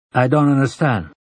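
careful, understated puzzlement; cautious. A narrator's reading. Rancher admitting confusion to the old man, cautious. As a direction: say it with a touch of caution.

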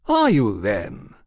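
lightly voiced mild question; politely mild query; mild inquiry. A narrator's reading. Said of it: "Oliphant inquired mildly".

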